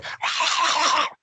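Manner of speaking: high, breathy burst of laughter; high panicky giggle, acted out; mimed nervous laugh. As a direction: imitate yourself laughing in fright. Mimics self going, scared between them.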